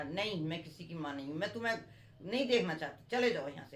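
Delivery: put-on a stepmother shooing the children off; lightly acted angry stepmother; cruel stepmother. Stepmother rejects the boys.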